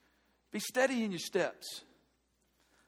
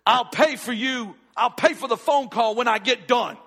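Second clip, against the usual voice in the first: a touch of retold snippy defiance; unchristlike attitude; 7 dB louder than usual. Pastor snapping back at the clerk over the call, mock snippy. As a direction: throw the offer back at her with mild attitude. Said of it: "in my best unchristlike attitude".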